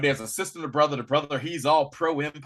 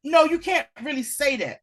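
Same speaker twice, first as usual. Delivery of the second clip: much higher and louder rebuttal; emphatic retort; 10 semitones higher, 6 dB louder than usual. Retold or imitated. Answering online commenters, high emphatic retort. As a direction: shoot it down hard. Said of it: "I said".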